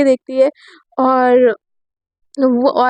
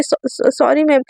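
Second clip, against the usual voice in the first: slow, stammered sorry; nervous stammer. Acted. Student stammering sorry to teacher, slow and nervous. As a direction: stumble out the apology.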